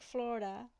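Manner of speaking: "Florida" tried as FLOR-da, questioning rise; American pronunciation attempt. Shown as a demonstration. Streamer asking viewers how they say it, "Florida" as FLOR-da. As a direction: try "Florida" the American way, two syllables. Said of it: "How do you say it?".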